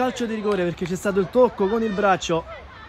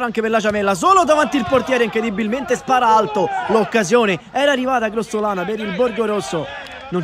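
excited; 3 semitones higher, 3 dB louder than usual. Real, not acted. Chance in front of goal.

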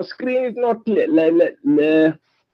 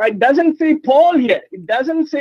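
raised voice; 6 semitones higher, slower than usual. Real, not acted. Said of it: "Stop screaming".

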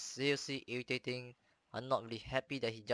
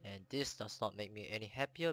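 hoarse from a sore throat; talking through a sore throat; 2 semitones lower than usual. Real, not acted. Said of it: "sorry if I sound so weird because I'm having sore throat".

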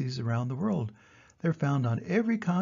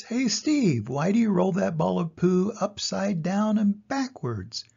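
higher, lightly voiced lion; curious lion; 5 semitones higher than usual. Lion asks Steve about rolling backwards, high. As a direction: ask with playful curiosity. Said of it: "The lion says".

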